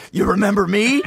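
a hint of a proud cop. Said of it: "He's like".

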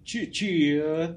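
high, loud party cheer; excited cheer. Real, not acted. Shouting a cheer to Maisie on her birthday, high and loud. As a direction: whoop it out for Maisie.

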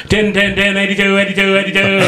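high, rapid auctioneer chant; mock auctioneer. Impatient customer chanting change like an auctioneer. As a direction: rattle the numbers off like an auctioneer. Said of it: "in my head was like an auctioneer".

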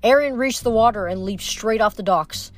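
lively audiobook narration; story narration. A narrator's reading. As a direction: read the chase like an audiobook. Reads novel chapter aloud.

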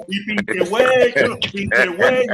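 slow, hammed-up Mexican accent; lightly imitated Mexican accent; mock Mexican. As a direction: drawl it like a Mexican buddy. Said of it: "yo era un mexicano".

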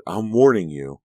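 loud threatening warning; shouting. Acted. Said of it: "Dee shouted".

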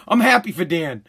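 bitter fake happiness, pitched low; grudging deadpan. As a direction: say it through your teeth, not meaning it. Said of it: "I'm gonna go".

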